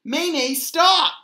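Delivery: high, urgent protest building to a shout; crying out. A narrator's reading. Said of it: "cried Rose".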